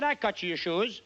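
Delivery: put-on Italian barber accent. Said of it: "He said".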